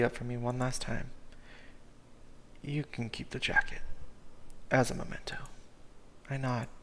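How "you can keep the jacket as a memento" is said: a sad friend holding back tears; serious Cooper. Acted. Cooper gives jacket.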